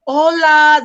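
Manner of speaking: high, loud, eager hello; hearty greeting. Retold or imitated. Husband greeting the lady, high and loud. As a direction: greet them big and friendly. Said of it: "he's like".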